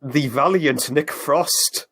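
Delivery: slow, booming movie trailer voice; epic announcer voice. Pretend. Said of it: "in an epic announcer voice".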